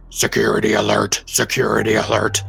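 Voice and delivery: repeated alarm call over comms; ship tannoy announcement. Acted. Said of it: "broadcast over open comms".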